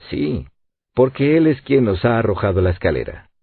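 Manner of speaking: ordinary delivery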